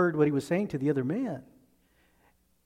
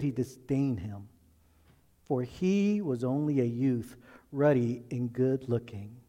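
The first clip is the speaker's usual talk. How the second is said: scripture reading. Acted. Pastor reads scripture before sermon.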